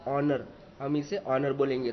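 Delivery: ऑनर said with no h, starting on the vowel; ऑनर without the एच sound, open vowel first; silent h shown. Shown as a demonstration. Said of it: "एच जो है वो हम नहीं बोलेंगे". (ऑनर का एच मत बोलिए, स्वर से शुरू कीजिए)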